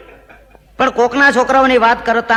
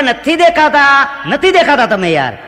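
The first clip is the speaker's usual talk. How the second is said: audience complaint; 4 semitones higher than usual. Retold or imitated. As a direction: drag out the protest from the crowd. Audience calling back complaint. (શ્રોતાની ધીમી ઊંચી ફરિયાદ)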